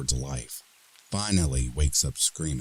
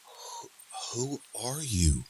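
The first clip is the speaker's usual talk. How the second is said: frightened; 10 semitones higher, 3 dB quieter than usual. A narrator's reading. Frightened woman questioning intruder.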